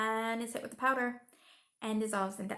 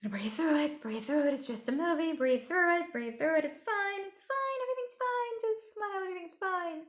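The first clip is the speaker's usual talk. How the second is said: high, hushed self-talk, straining to stay calm; forced calm mantra; 8 semitones higher than usual. Retold or imitated. Watching the fairies get trapped, a strained high hushed mantra. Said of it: "I'm sitting there going".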